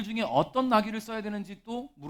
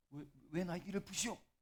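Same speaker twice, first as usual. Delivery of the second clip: soft, quavering, trembling, nervous, startled voice; 3 semitones lower, 16 dB quieter than usual. Acting out the donkey's owner questioning the disciples, imitating a trembling, nervous voice. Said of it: "떨리는 목소리 이렇게 묻겠죠".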